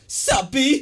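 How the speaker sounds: high, loud African American accent impression. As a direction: greet them in a black man voice. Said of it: "a black man voice".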